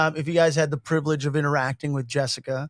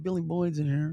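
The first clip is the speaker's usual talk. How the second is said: soft hushed aside, much quieter; imitated whisper; 7 dB quieter than usual. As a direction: lean in and breathe it to him. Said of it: "she walked by and whispered".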